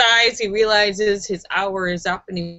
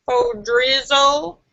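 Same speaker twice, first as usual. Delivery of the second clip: rapper riff; slower than usual. Acted. Rap-style punchline riff.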